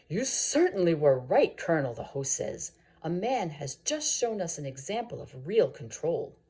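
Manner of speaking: lightly voiced host, pleased and loud; hearty host. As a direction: boom it out to the table. Host praises the colonel loudly.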